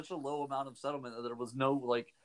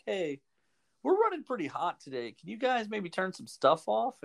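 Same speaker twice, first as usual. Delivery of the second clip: mock utility announcement; 6 semitones higher than usual. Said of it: "they're sending out releases where, like".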